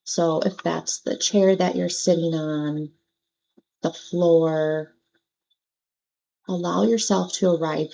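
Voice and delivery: unhurried, pause-filled meditation guidance; guided meditation. Acted. Meditation teacher settling listeners into their seats and breath, gentle guidance. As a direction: guide them through it gently, leaving long pauses.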